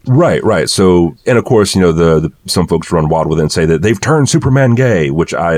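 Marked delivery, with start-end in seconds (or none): 3.8-5.1 lightly voiced conspiracy ranter; a hint of a ranting radio host; Alex Jones. Co-host mimicking critics outraged over Superman, a light impression. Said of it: "in my best Alex Jones voice".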